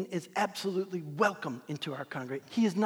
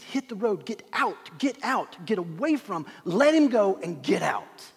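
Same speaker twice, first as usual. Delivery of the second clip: insistent orders building louder; commanding; 5 dB louder than usual. Acted. Jesus driving out the demon, forceful and commanding. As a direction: drive it out, rising to a loud peak. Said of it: "Jesus is saying to the demon".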